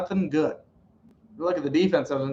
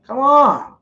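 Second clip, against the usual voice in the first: begging the offense for a touchdown, voice raised; Matthew Stafford; 5 semitones higher, slower than usual. Retold or imitated. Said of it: "Matthew Stafford's like".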